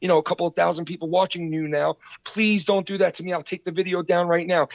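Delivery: high-pitched mock begging; mock pleading. Podcaster acts the rebuttal his rival expected, mock pleading. Imagined begging reply, mocked.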